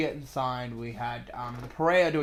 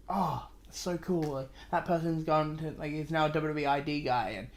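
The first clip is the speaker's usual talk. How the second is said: a gushing fan that climbs higher and louder; mock thrilled fan; 3 semitones higher, 5 dB louder than usual. To a co-host, playing a fan who gets more thrilled. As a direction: start mild, then gush more with each name.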